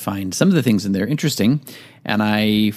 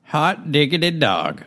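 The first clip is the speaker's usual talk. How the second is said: put-on old-timey voice; 7 semitones higher than usual. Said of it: "an old-timey voice".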